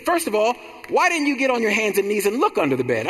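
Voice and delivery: high-pitched, astonished mother; mama's amazed voice. Retold or imitated. Mother asks her son why he never looked, high amazed voice. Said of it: "She said".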